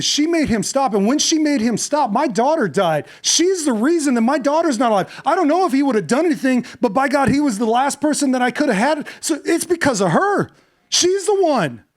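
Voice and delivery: a grieving father who turns his anger on her; angry father blaming. Acted.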